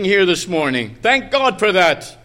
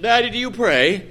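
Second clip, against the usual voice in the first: slightly raised, lightly voiced child's question; innocent little girl; 4 semitones higher than usual. Little girl asking her father if he prays, innocently. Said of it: "A little girl innocently asked her father".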